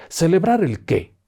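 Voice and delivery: high and slow, in disbelief; incredulous question. Acted. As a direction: stretch it out as if the idea is absurd. Driver repeats, incredulous. (incrédulo, agudo y lento)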